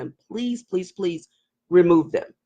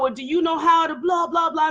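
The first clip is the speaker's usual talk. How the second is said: suggestive man; 6 semitones higher than usual. Retold or imitated. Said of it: "they'll go".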